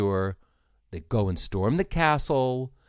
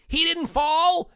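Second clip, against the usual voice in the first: much higher, slow, louder astonished shout; amazed cry; 5 dB louder, slower than usual. Retold or imitated. Retelling the film, shocked he survived, high astonished cry. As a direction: gasp it out in disbelief. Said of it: "he goes".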